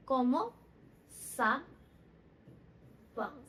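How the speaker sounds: सावा drawn out very long and falling; कॉमो सावा with a long falling सावा; slow French demo. Shown as a demonstration. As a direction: stretch सावा at the end of कॉमो सावा. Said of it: "how are you को क्या बोलते हैं?".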